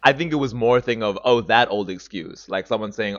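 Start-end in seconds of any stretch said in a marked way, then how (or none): 1.2-2.5 slow, weary dismissal; disbelieving. Shown as a demonstration. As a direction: wave away an excuse you don't buy. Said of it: "That's why he said it like that".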